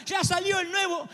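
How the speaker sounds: high, slow crying whine; whiny child. Acted. Spoiled son whines to his dad about the new phone, crying shout. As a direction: wail it like a spoiled kid.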